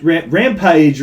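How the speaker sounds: slipping into a Southern drawl. Real, not acted. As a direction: let the Tennessee twang out on Rampage. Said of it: "You hear that fucking Southern drawl?".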